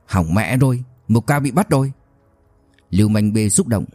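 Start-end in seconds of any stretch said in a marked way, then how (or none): 0.0-1.9 out of breath from running; panting the words mid-run; while running. Acted. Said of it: "vừa chạy vừa nói".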